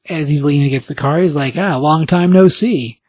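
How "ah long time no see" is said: slow, mock-smug drawl. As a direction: draw it out, pleased with yourself. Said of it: "You know, smug as always".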